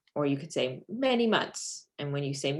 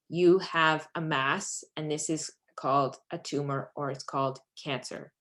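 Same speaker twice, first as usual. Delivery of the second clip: short little bits. Shown as a demonstration. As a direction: deliver the news one small piece at a time. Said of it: "you go in short little bits like that".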